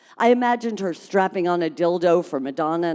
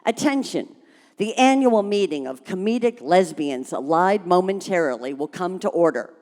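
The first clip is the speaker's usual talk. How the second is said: conspiratorial tone. Acted. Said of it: "continued in a conspiratorial tone".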